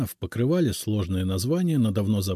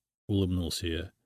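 ordinary delivery, nothing marked

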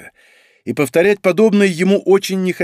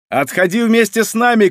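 higher, loud call into his ear; shouting; 5 semitones higher, 3 dB louder than usual. Acted. Izukha shouts into the boy's ear to retreat, loud. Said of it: "крикнул ему на ухо Изуха".

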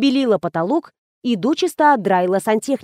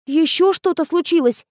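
frightened; 7 semitones higher than usual. A narrator's reading. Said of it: "перепугалась Поля".

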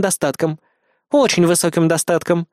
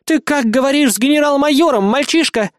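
indignant scolding; 7 semitones higher than usual. A narrator's reading. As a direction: put the boy in his place. Goddess scolds insolent captain.

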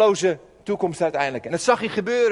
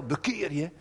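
gentle call; 4 semitones lower, 9 dB quieter than usual. Retold or imitated. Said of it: "geen oproep vanuit oordeel".

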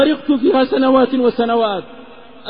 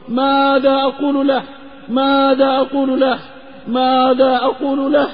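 loud scream. Acted. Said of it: "يصرخ بأعلى صوته".

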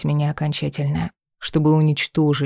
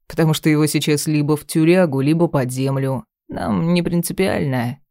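menacing threat. Acted. Thug threatening with knife.

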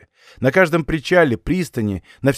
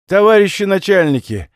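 put-on panting old watchman, louder; breathless old man; 5 semitones higher, 5 dB louder than usual. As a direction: gasp it out, winded. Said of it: "задыхаясь".

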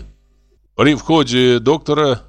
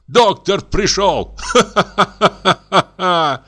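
much higher, slow, cackling mocking laughter; shouted laugh; 11 semitones higher, much slower than usual. A narrator's reading. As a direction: crow in wild triumph. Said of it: "крикнул он и захохотал". (с криком и хохотом)

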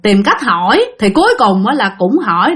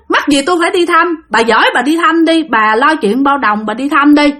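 higher-pitched, irritated retort; mock telling-off, pitched up; retold scolding; 4 semitones higher than usual. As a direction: imitate a testy friend refusing to be bothered. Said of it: "Tự nhiên mày chửi tao à?".

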